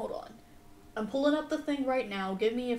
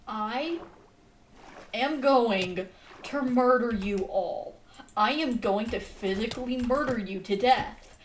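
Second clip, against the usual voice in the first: mock murder threat; 4 dB louder than usual. Mock rage at drowned mob.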